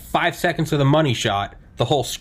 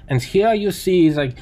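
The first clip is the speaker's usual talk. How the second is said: put-on light German accent, raised pitch; 4 semitones higher than usual. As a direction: mimic a German engineer presenting. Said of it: "it's a thick German accent".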